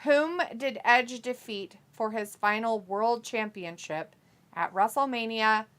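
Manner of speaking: slow, measured trivia question; quiz-host reading. Real, not acted. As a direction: read it out slowly, phrase by phrase.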